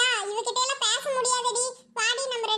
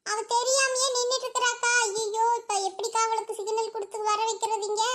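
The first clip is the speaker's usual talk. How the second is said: normal talking voice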